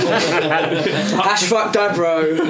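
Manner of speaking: slow, drawn out through laughter; laughing. Real, not acted. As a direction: chuckle the hashtag slowly. Laughing hashtag.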